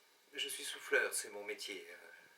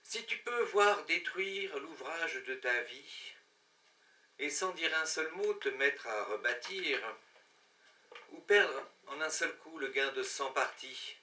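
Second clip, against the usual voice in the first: stately poetry recital; poem recitation. Acted. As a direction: recite solemn verse, pausing after each line.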